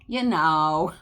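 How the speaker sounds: half-hearted Valley girl impression with a rising end; Valley girl accent. Poking fun at California girls, half-hearted Valley girl accent. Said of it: "can't even do a good Valley girl accent".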